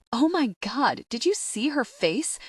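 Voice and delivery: high, gleeful squeal; excited laughing. Acted. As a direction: gush through laughter. Abby guffaws at the scene.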